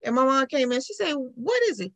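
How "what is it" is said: imitated grandma, pitched up; grandmother answering. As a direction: answer a child in a high voice.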